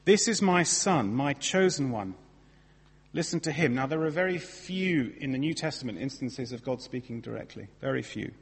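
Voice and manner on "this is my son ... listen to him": voice of God. Retold or imitated. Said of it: "God speaks directly".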